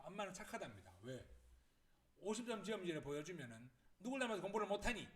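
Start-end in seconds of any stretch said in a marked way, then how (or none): 4.0-5.1 higher, louder, rapid telling-off; scolding mom. Retold or imitated. Mom to child with fifty-point test, scolding. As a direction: scold the child like an exasperated mother. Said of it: "막 이렇게 막 혼내다가도".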